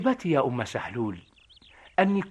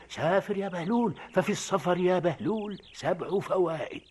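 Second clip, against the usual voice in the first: dream voice; 6 dB quieter than usual. Retold or imitated. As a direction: murmur the dream's command. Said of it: "ويظل الصوت يهدر". (صوت الحلم بنبرة هادئة خفيفة)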